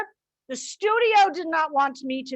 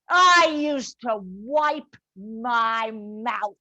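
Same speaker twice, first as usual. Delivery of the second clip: slow contempt; 3 semitones lower, much slower than usual. Acted. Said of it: "Mildred tirade".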